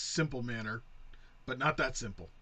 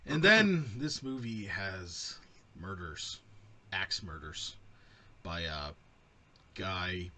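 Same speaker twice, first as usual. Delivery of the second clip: slow, halting mock robot delivery; stilted and flat like a machine reading; slow mock computer narration; 5 semitones lower, slower than usual. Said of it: "You're talking like a computer now".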